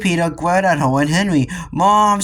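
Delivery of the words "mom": high, loud call for mother; storybook child's scream; mock scream. A narrator's reading. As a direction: yell for your mum, pitch up. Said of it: "screamed Peter".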